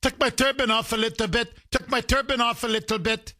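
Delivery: mocking mimicry. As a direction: repeat his claim to ridicule it. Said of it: "mocking the attacker".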